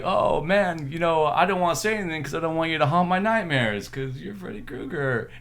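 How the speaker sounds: taunting comedian voice. Retold or imitated. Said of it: "he's like".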